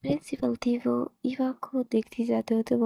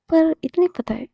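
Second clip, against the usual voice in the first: loud threat; 5 semitones higher, 6 dB louder than usual. A narrator's reading. Student threatens teacher.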